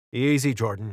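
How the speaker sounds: plain reading voice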